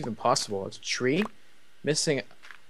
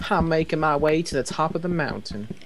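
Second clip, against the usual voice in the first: slower, higher grand announcer; 6 semitones higher than usual. Shown as a demonstration. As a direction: proclaim it like an epic narrator. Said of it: "repeats line in announcer voice".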